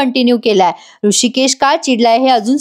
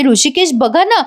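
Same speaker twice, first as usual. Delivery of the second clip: lightly acted eager pleading, higher pitch; very happy; 4 semitones higher than usual. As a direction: coax him happily, pitch lifted. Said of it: "Janaki खूप खुश होते". (आनंदाने आर्जव, हलका अभिनय)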